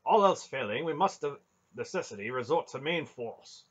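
declaring knight. A narrator's reading. Knight planning a rescue by force, loudly declaring. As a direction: proclaim it with a high, strong voice.

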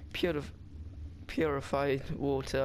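a light mock Russian accent on purified water. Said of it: "I said that in, like, a Russian accent".

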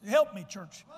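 loud appeal to the church; calling out. Real, not acted. Preacher calling on the church for support, loud. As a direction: rouse the congregation.

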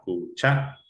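"Cuchara" split as cu-CHA-ra; syllable by syllable. Shown as a demonstration. Teacher showing the stressed syllable, syllable by syllable. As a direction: separate "Cuchara", lifting cha. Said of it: "la sílaba tónica".

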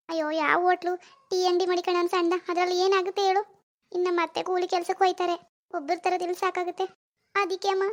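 pleading daughter. Acted. Daughter on the phone begging her mother for money, mildly tearful pleading.

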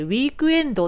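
"ウィークエンド" with full Japanese vowels, u after k and o after d; katakana pronunciation. Shown as a demonstration. Teacher shows the katakana habit, "ウィークエンド" with added vowels. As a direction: say "ウィークエンド" as flat katakana syllables. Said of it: "カタカナでウィークエンドってなっている".

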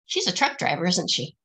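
ordinary delivery, nothing marked

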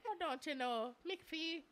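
lilting mock Irish, amused; hammed-up fake Irish; jokey Irish accent. Shown as a demonstration. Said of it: "look, that sounded good".

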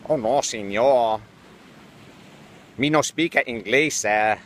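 hammed-up Spanish accent, barely shifted; mock Spanish accent. Reporter dodging the swat team in a mock Spanish accent. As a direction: play dumb in a thick Spanish accent. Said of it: "I switched to a powerful Spanish accent".

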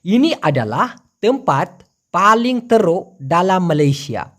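measured teaching demo with short breaks. Shown as a demonstration. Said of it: "তাহলে এরকমই হবে".

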